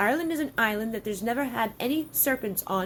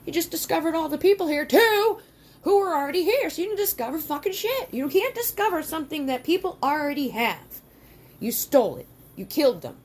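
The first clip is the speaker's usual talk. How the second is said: angry rant; 4 semitones higher than usual. Real, not acted. Ranting at Columbus.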